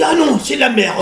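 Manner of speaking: imitating a French man from the south of France, rising; mock southern French outburst, laughing; French southern accent. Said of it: "il capote sur l'accent". (accent du Sud de la France, imitation amusée)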